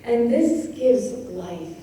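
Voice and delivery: slow, separated "this gives life"; pausing on stresses. Shown as a demonstration. Teacher showing where the verse pauses, slow and weighted. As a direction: give each stressed word room to pause. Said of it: "there we're invited to pause".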